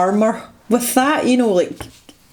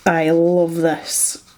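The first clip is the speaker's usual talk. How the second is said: greedy glee; much slower than usual. Real, not acted. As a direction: savour it like a treat. Craving more of the paint.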